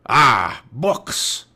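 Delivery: loud, disgusted pirate growl. A narrator's reading. Captain Bones hearing of books, disgusted growl. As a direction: growl with contempt for the find. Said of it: "growled Captain Bones".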